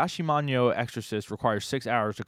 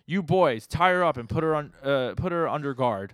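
louder, higher order to the troops; imitated command; 3 semitones higher, 4 dB louder than usual. Retelling Oboro ordering his boys, mock commanding. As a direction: act out a boss giving orders.

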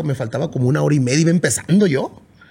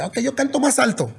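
mock singer reply; 8 semitones higher than usual. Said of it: "le va a decir".

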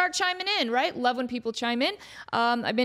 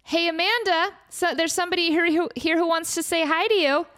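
cheery producer voice; 8 semitones higher than usual. Retold or imitated. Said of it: "And Dan went".

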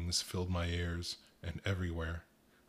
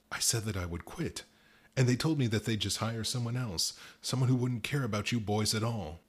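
distraught; 4 semitones higher, 4 dB louder than usual. Acted. Tetrali's distraught confession.

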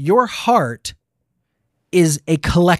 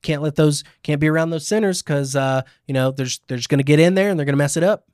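put-on Southern Christian accent. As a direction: imitate a Southern believer warning about sinners. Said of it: "my Christian accent is Southern".

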